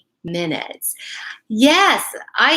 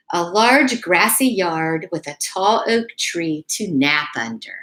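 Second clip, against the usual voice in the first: put-on reading a picture book aloud to kids; gentle storyteller read; story reading.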